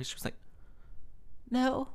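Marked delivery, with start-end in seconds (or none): 1.5-1.9 tiny, very high mock voice; high-pitched, hesitant imitation; imitating blank reply. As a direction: squeak it as the awkward woman.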